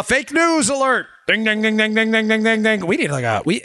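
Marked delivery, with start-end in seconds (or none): 0.0-1.1 big slow announcer call; game show host. Acted. 1.3-2.9 bell ding imitation. Making a bell sound effect.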